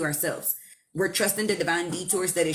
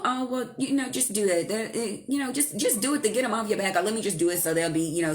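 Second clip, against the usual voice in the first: a lightly raised, mocking voice of people who say "just do it"; mocking advice; 4 semitones higher than usual. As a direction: toss off "just do it" as bossy, mildly mocking advice. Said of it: "we're always taught that".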